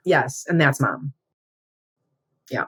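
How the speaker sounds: tears welling up unexpectedly; crying. Real, not acted. Agreeing it was Mom while tears suddenly start. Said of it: "it's just a faucet".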